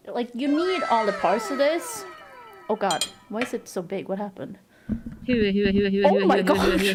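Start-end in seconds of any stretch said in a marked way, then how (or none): 5.3-6.9 slow stunned gasp into laughter; shocked laughter. Real, not acted. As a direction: laugh in disbelief. Reacting to a big surprise.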